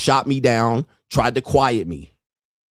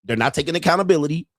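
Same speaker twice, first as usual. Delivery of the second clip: ordinary delivery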